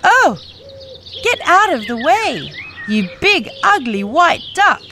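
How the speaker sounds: put-on 1 scornful girl. Farm girl chasing duck away.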